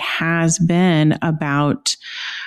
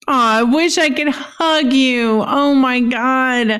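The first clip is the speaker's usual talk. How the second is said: moved and excited; 6 semitones higher than usual. Real, not acted. Cohost moved by acknowledgement.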